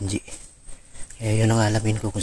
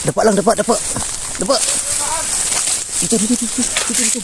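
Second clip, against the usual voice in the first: higher, louder urgent commands; urgent shouting; 13 semitones higher, 4 dB louder, faster than usual. Acted. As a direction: bark orders in a panic. Urgent orders under threat.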